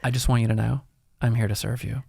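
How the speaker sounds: soft, polite hotel concierge greeting; customer service voice. Shown as a demonstration. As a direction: greet a guest, softly and eager to please. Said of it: "You have a very good customer service voice".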